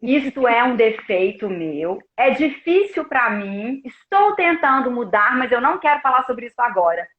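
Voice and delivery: low, slow, measured acknowledgement; composed admission. Acted. Guest recites her mantra for criticism, composed and measured. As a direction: own the flaw slowly and evenly. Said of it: "eu viro pra pessoa e falo assim".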